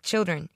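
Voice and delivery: put-on "Children" with a clear CH, falling; corrective pronunciation. A narrator's reading. She repeats the word for her manservant, "Children" with clear CH. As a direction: restate "Children" as a correction, starting CH. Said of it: "Tovey corrected him".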